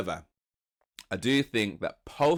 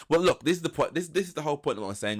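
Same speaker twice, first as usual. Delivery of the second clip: higher, pressing mock exasperation; retold exasperated insistence; 5 semitones higher, 3 dB louder, faster than usual. Man in marriage row, acted exasperated insistence. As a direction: press the point, voice raised.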